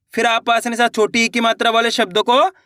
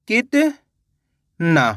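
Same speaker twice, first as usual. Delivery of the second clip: कितना stretched very slowly, every syllable held long; drawn-out sounding out; much slower than usual. Shown as a demonstration. Teacher sounding out कितना very slowly for pupils to write. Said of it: "जैसे ही कितना बोलेंगे".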